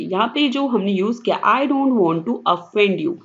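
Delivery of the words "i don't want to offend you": very slow, careful reading of an English sentence; slow example reading. Acted. Teacher reading example sentence to students, slowly. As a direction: read the example out word by word.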